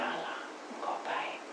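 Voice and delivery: soft, breathless whisper; whispered confession. Retold or imitated. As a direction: whisper it in humble awe. Snake humbly confesses to God. (bisikan lirih penuh penyesalan)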